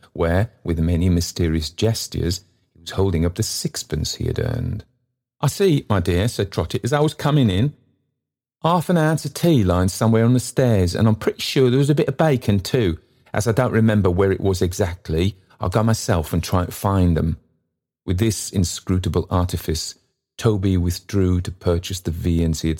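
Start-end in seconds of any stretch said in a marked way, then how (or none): 5.4-17.4 put-on eager old porter, pitched up; kindly old man pressing his offer; Trotty voiced higher. Trotty offering the stranger lodging, eagerly.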